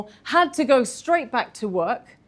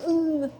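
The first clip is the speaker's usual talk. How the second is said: mock seizure grunt; 6 semitones higher than usual. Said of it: "who would walk around going".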